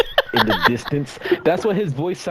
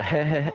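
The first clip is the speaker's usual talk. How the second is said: dry mock "heh heh"; little joke-ending chuckle. Shown as a demonstration. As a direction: tack on a small smirking laugh. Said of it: "at the end of a joke".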